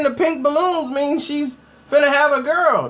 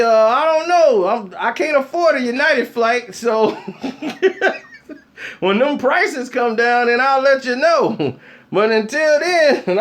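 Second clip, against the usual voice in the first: laughing answer; 3 semitones higher, slower than usual. Retold or imitated.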